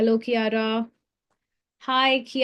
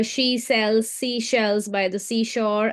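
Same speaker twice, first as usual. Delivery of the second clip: tongue twister read; slower than usual. Shown as a demonstration. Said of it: "I can read a tongue twister".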